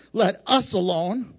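"Let us alone" with weight on "us"; stress on us. Shown as a demonstration. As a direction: lean on "us" to show plural.

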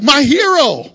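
high, loud mock swoon; mock adoring. Pastor mocking the crowd cheering the hero, high and loud. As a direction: gush like a starstruck fan, hammed-up.

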